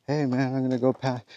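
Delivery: easy, friendly hello to a deer; cool, casual tone. Retold or imitated. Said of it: "just the tone of my voice. It's just, just cool".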